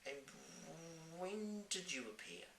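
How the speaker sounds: put-on young girl voice. Sophie asks.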